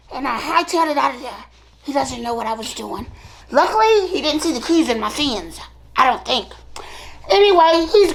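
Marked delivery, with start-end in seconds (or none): 0.1-3.1 softer, fast secretive telling; quick hushed aside. Acted. Mermaid whispering how she fled. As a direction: rush it out low and hushed.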